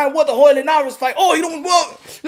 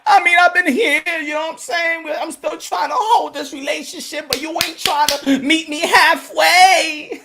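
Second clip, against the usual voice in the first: mock hurt plea; 4 semitones higher than usual. Fan pleading to boxing.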